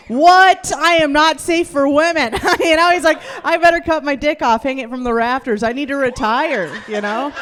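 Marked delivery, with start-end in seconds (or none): 0.1-2.3 loud, high mock astonishment; stoked boasting. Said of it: "He was stoked. Like, he was like". 3.4-6.7 imitating a thrilled, self-amazed boyfriend; stoked boasting. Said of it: "He was stoked".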